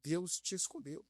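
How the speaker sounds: slow, softened pastor's word; measured, solemn declaration; pastor's pronouncement. Retold or imitated. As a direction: imitate a pastor delivering God's message slowly. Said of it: "esse pastor olha pra mim e fala assim".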